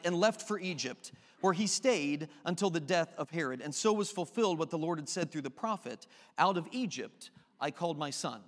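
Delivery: measured Bible reading to the congregation; scripture reading. Acted. Pastor reads Matthew two aloud to church, measured reading. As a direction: read the passage steadily.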